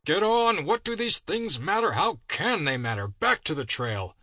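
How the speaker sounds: very high, loud angry yell, easing at the end; furious shout. Acted. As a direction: scream at the horse in rage. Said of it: "he cried".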